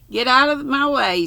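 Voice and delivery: high, loud get out of my way; impatient shout. A narrator's reading. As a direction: push past them, loud and high. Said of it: "said Lucy".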